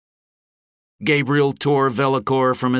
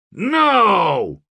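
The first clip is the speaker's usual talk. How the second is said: high, loud cry of no; shouted answer; 10 semitones higher, 5 dB louder than usual. A narrator's reading. Someone in the crowd answering the speaker, shout. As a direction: call it out from the crowd. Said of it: "someone ventured".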